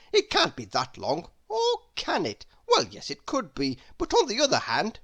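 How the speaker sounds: jumpy, swooping pitch, nonstop babble; rambling chatterbox. Acted. Mister Chatterbox rambling at the hatter about his old hat.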